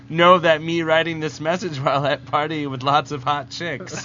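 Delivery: lightly played blockheaded comic-book creature; emphatic, lightly put-on caveman-style reading; Bizarro voice. Host reading contest entry to laughing co-hosts, lightly voiced Bizarro. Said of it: "do this in the voice of Bizarro".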